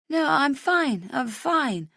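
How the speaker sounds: put-on slow, slurred drunk insistence; drunken slur. A narrator's reading. Drunk Rach insisting to Matt she's fine, slurring. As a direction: slur it like you can barely stand. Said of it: "I slur for the tenth time".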